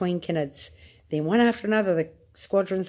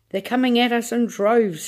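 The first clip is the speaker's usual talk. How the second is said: high, louder shout; 5 semitones higher, 4 dB louder than usual. A narrator's reading. Astronaut shouting to the president, high and loud. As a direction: shout over the attack. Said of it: "Shuckworth was shouting".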